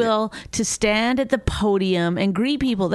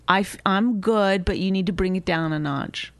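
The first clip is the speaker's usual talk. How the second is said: toned-down request. Shown as a demonstration. Diner telling waiter to tone it down, measured. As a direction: politely ask them to ease off. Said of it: "you can do it like that".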